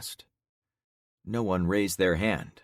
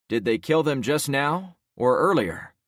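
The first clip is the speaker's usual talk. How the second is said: urgent questioning; 7 semitones higher, 5 dB louder than usual. Acted. Protagonist presses witness.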